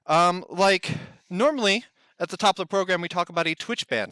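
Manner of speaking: breathless after running; panting a little between words; out of breath. Real, not acted. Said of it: "I'm still out of breath".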